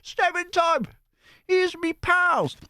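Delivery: very high, squeaky mock-Cockney accent; Dick Van Dyke Cockney. Reader sends up a Mary Poppins song, high mock Cockney. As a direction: push the bad Cockney right up high. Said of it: "Australian Cockney kind of accent".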